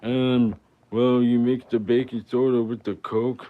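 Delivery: mock nerd answer. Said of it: "would just be like".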